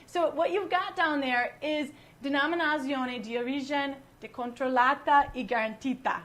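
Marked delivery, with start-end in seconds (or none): 2.2-6.2 amateur Italian accent on the label term; American attempt at an Italian accent; horrible Italian accent. Shown as a demonstration. Host showing what the label says, amateur Italian accent. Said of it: "horrible Italian accent".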